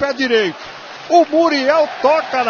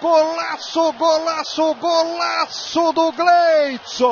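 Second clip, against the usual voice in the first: explosive goal commentary; 4 semitones higher, slower than usual. Acted. Repeated goal celebration call.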